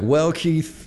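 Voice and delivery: high-pitched put-on Australian accent. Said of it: "is that your Australian accent".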